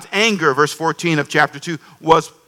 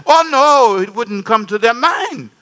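mock-shocked visitor; 5 semitones higher, slower than usual. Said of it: "She says".

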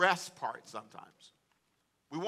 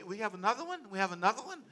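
higher, repeated rising question; team's dismayed question; 4 semitones higher, 4 dB quieter, faster than usual. Retold or imitated. Sermon team facing yet another session, mild disbelief. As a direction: lightly mimic incredulous co-workers, each ending rising. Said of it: "they go".

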